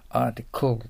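"article" with the final L clearly sounded; firm final L. Shown as a demonstration. Teacher drills the L for learners, "article" ending in a firm L. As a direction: finish "article" on a definite L. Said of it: "Lの発音をしっかり出す".

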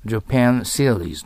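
"Japan series" said slowly in English, with r in "series"; English pronunciation. Shown as a demonstration. Teacher contrasting it with 日本シリーズ, slow and careful. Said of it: "日本シリーズじゃないです".

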